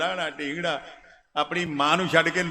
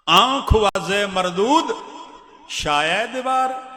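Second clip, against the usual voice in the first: mocking declamation; 4 semitones higher, 4 dB louder, slower than usual. Preacher mocking Khwaja, declaiming.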